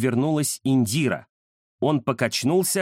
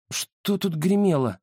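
sleepy question; 4 semitones higher than usual. Acted. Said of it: "сонно спросила она".

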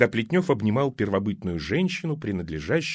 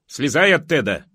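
called out; 2 semitones higher, 5 dB louder than usual. Acted. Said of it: "послышалось из-за забора".

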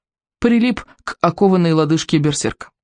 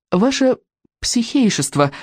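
polite; 6 semitones higher than usual. A narrator's reading. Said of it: "вежливо произнёс он".

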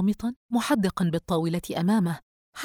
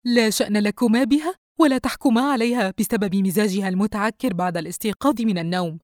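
raised, louder voice defending her daughter; mother snapping back at the father and son, louder and higher; sharp defensive mother; 3 semitones higher, 6 dB louder than usual. Acted.

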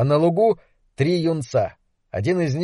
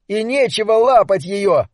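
angry; 6 semitones higher than usual. Acted. Angry boy defends radio.

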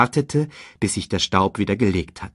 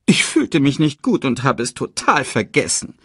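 higher, put-on apologetic voice; feigned regret; 5 semitones higher than usual. A narrator's reading. Scar excuses himself to his brother, feigned regret. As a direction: make a false, high-pitched excuse.

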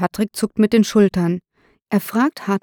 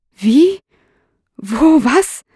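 high, louder, startled questions; stammering shock; 6 semitones higher, 5 dB louder, much slower than usual. A narrator's reading. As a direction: blurt it out in acted disbelief. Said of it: "stammelt Thorsten Herrlich". (fassungslos gestammelt, hoch und laut)

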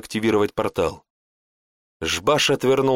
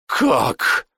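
a hateful breathed-out word; a mild hateful gasp; hateful exhale; 3 semitones higher than usual. Acted. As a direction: spit it out with hatred on the breath. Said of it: "с ненавистью выдохнул Жбаш".

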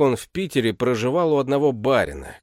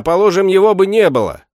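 louder and higher, calling after him; shout; 8 semitones higher, 9 dB louder than usual. A narrator's reading. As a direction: shout it at his back. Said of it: "крикнул ему вслед дворецкий". (громкий окрик вдогонку)

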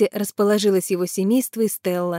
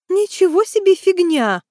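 much higher, louder outraged cry; indignant exclaim; 10 semitones higher, 5 dB louder than usual. A narrator's reading. Tatyana answers her brother-in-law, indignantly loud and high. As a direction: protest in outrage. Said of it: "возмущённо воскликнула Татьяна".

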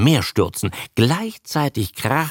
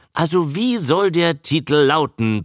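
higher-pitched, mildly blustering demand; blustering Fred; 6 semitones higher than usual. A narrator's reading. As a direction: demand it impatiently. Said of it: "polterte Fred".

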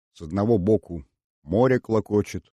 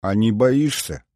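slow, silky question; insinuating; 2 semitones higher, 3 dB louder than usual. Acted. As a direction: ask slyly, drawing it out. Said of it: "вкратчиво спросила Сулима".

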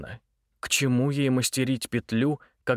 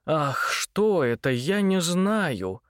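mock fright; 5 semitones higher, much slower than usual. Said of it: "вскрикивать".

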